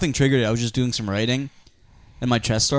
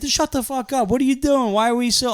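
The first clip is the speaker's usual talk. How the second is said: mock drunken yelling; 11 semitones higher than usual. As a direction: imitate a drunk friend yelling nonsense. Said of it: "He kept, like, yelling about dumb shit".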